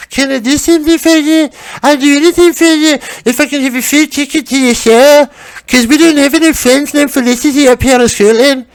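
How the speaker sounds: high-pitched caricature Scottish voice; mock Scottish accent. Scottish flyer girl begs Felicity for a show ticket, high mock Scottish accent. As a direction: plead in a squeaky, overdone Scottish accent. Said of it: "can I do your lovely Scottish accent?".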